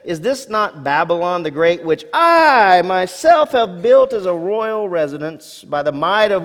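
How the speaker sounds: boastful king. Acted. Preacher voicing boastful king.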